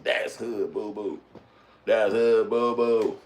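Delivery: slow, drawn-out pointing-out call; imagined gawker calling. Pretend. Fan spotting the girlfriend, slow mock call. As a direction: stretch the words like a nosy fan.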